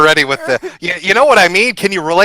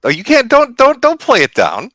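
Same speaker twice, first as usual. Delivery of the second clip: excited protest; 9 semitones higher than usual. Real, not acted. Insisting friend won't downplay.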